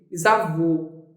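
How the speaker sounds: bisavô with a narrow, closed final ô; closed vowel. Shown as a demonstration. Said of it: "Viu como a minha boca, ela ficou, é, menos aberta?".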